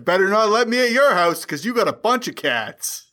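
lightly voiced wisecracking alien; Alf voice. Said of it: "Is that the elf voice?".

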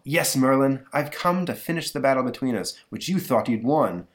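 lightly voiced gloating gargoyle; a hint of a sneering monster; villain gargoyle.

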